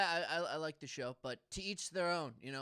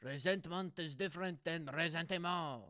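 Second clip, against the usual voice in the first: imitating Nietzsche. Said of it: "he was like".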